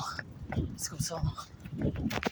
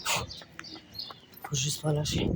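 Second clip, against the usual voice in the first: exhausted and breathless; 4 semitones lower, 5 dB quieter, slower than usual. Real, not acted. Exhausted runner at kilometre 24.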